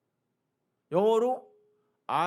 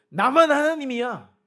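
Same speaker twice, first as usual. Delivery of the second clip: booming divine declaration; 7 semitones higher, 10 dB louder than usual. Acted. God's voice in preacher's declaration.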